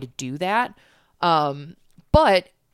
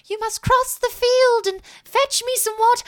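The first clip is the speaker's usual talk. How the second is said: high, loud video game character voice; hammed-up game character line; video game quest giver; 7 dB louder than usual. Shown as a demonstration. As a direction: announce the quest like a fantasy game NPC. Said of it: "video game type of characters".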